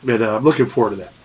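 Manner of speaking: stuffy nose from a cold; nasal voice. Real, not acted. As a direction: speak through a blocked, nasal nose. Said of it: "sorry for my little bit nasally voice".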